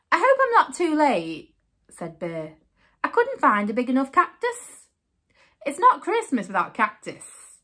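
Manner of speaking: story narration. A narrator's reading. Reading picture book aloud.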